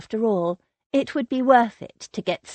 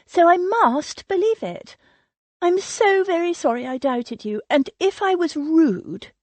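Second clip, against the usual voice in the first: higher, eager voice of the fussy cousin, apologizing in a rush; an anxious society lady pleading to be forgiven, pitched higher; gushing Sylvia; 5 semitones higher, 4 dB louder than usual. A narrator's reading.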